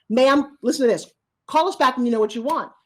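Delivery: a fed-up phone operator telling the caller off. Acted. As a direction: snap at the dithering customer.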